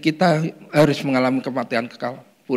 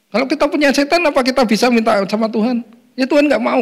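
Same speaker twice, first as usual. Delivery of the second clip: fervent; 9 semitones higher, 4 dB louder than usual. Real, not acted. Rising fervent preaching.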